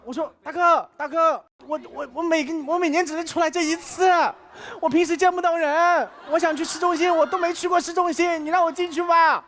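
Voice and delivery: high, pitiful begging; whiny plea to the police to be let in; pleading. Retold or imitated. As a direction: beg the officer like a sad kid. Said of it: "好可怜啊！".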